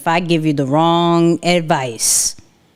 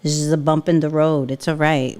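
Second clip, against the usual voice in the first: mock consoling; 5 semitones lower than usual. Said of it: "It's like I'm crying".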